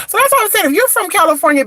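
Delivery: emphatic. Real, not acted. Emphatic call out.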